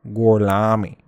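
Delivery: Italian accent. Shown as a demonstration. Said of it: "'Cause it's".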